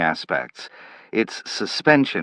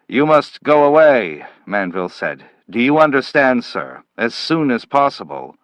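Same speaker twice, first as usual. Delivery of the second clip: urgent command; 4 semitones higher than usual. Acted. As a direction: press him hard to leave. Manville urgently orders Slade away.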